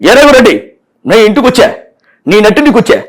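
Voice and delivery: lightly voiced mock hero challenge; aggressive Balakrishna dialogue. Mimic the hero threatening the villain, mildly aggressive. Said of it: "aggressive".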